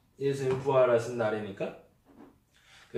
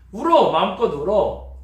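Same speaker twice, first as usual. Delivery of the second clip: loud urging to cry; 6 semitones higher, 7 dB louder than usual. Retold or imitated. Preacher voicing a comforter telling a grieving friend to cry freely. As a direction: start high and loud on the first word, then settle.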